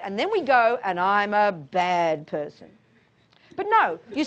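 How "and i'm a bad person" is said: slow, low, hammed-up guilt; mock self-pity. Teacher voicing self-blame to students, slow mock misery. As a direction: drag it out like a self-pitying confession. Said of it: "rather than the guilty nonsense".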